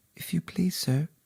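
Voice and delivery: soft, timid voice. Narrating, the main character addresses the rabbit in a low, timid voice. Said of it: "she began in a low, timid voice".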